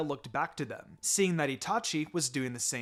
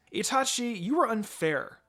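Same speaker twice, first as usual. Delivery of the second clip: put-on higher, playful child's yell; mock yell; 7 semitones higher, 4 dB louder than usual. A narrator's reading. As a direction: tease him loudly for cheating. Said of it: "I yelled at him".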